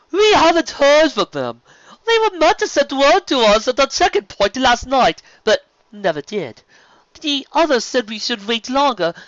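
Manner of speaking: high, loud, flamboyant serpent voice; sea serpent Stephen. Acted. Sea serpent inviting the sister along, grand and high.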